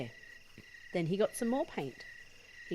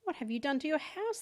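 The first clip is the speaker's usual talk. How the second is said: shouted; 10 semitones higher than usual. Acted. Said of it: "they shouted at the man".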